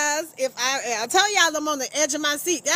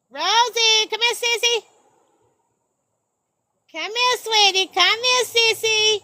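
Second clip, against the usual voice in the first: high sweet calling voice; sing-song call; 8 semitones higher, 4 dB louder than usual. Real, not acted. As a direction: coax her over sweetly.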